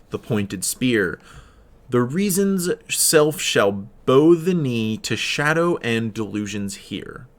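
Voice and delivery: slow, measured reading of verse; poem recitation. Acted. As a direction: read the poem with weight and pauses. Reads a poem aloud.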